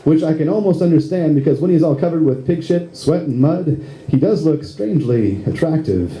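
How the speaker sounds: rhymed monologue in steady rhythm; comic spoken-word poem. Acted. Lead actor voicing Curly's inner monologue, rhythmic comic recital. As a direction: recite it as a rhyming comic piece.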